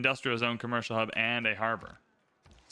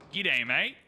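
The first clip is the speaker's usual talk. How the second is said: put-on Australian accent; 2 semitones higher than usual. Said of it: "That's how he would say it".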